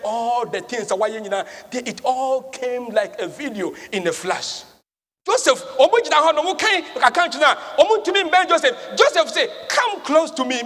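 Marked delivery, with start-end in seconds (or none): 5.2-10.6 higher, urgent pulpit storytelling; raised, dramatic sermon voice; preaching. Acted. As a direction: preach the scene with sudden energy. Preaches at full force.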